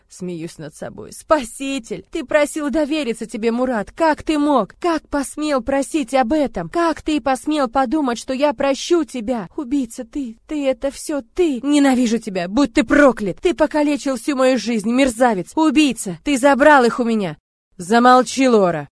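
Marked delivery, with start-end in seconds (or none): 1.1-17.4 high, loud, slow hateful accusations; furious screaming. Acted. Heroine screaming accusations at Murat, furious. 17.8-18.9 loud angry growl. A narrator's reading. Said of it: "чуть рыча говорит он".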